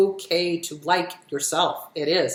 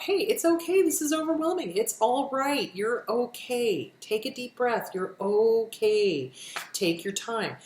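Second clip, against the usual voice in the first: self-soothing talk; 2 semitones higher than usual. Shown as a demonstration. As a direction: talk yourself down tenderly. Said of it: "Or do self-soothing talk".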